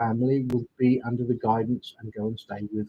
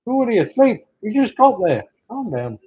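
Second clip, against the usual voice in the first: teasing pet talk; 9 semitones higher, 6 dB louder than usual. Real, not acted. Talking to the pet cat.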